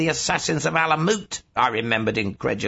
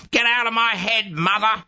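high-pitched cry of protest; sudden raised-pitch inner outburst; agitated outburst; 9 semitones higher than usual. A narrator's reading. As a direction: cry out to banish an intruding thought. Narrator cries out to mother in his head.

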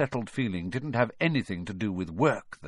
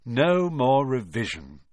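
slow, contented and sighing; happy sigh; 2 semitones higher than usual. Acted. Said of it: "Ron sighed happily".

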